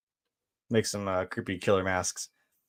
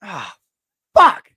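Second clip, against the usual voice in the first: much higher, louder curse as the car blows; shouted curse; 9 semitones higher, 10 dB louder than usual. Retold or imitated. Trapped girl curses the killer's fuel trail, shouting much higher and louder. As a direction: yell it out in panic. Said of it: "she's like".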